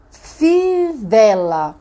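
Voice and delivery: FIVELA in one long slow stretch, falling; name fivela very slowly without breaking it; whole word stretched. Shown as a demonstration. Teacher naming the picture fivela for a child, drawn out. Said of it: "a figura é".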